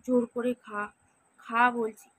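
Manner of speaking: loud, harsh order to eat; forced feeding order. Retold or imitated. Parent yelling at a child who won't eat, loud.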